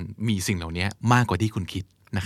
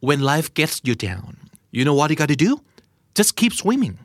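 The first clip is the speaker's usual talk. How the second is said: quoting Dory; 5 semitones higher, much slower than usual. Retold or imitated. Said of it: "เขาบอกว่า".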